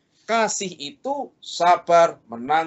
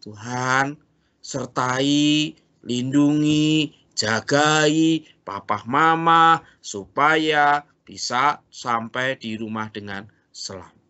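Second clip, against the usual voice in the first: put-on slow, earnest child's prayer; slower than usual. Shown as a demonstration. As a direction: pray it out slowly and sincerely. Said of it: "tunggu doa sama Tuhan". (doa anak yang pelan dan tulus)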